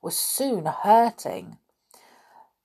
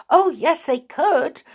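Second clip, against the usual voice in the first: much higher, louder eager burst; 10 semitones higher, 8 dB louder than usual. A narrator's reading. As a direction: jump in eagerly. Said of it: "suddenly and eagerly".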